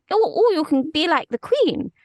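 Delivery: high, loud, hammed-up posh English; posh English accent. Shown as a demonstration. Demonstrating English poshness for the host, high Queen-like posh English accent. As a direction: swoop up into regal posh English. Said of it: "an English person is being posh".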